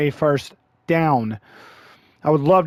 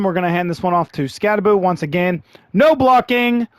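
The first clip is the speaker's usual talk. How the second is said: sarcastic despair, voice jumping up; exasperated outcry. Real, not acted. Gamer seeing no blocking again, exasperated outcry. Same complaint repeated.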